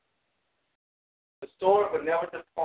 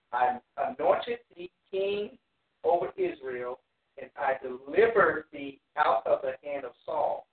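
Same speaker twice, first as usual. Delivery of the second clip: slow, emphatic Bible reading; scripture reading; 3 dB louder than usual. Acted. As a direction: proclaim the verse in drawn-out phrases. Reads scripture aloud to the class.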